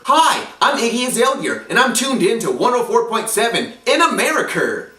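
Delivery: lightly mocking radio-spot impression; "Azalea" and "America" ending in exaggerated "er"; a rapper. Imitating the rapper greeting radio listeners, mock pronunciation. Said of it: "She pronounces her own name like that".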